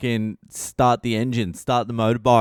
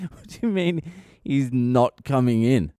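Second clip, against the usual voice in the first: incredulous. Retold or imitated. Incredulous repeat of quote.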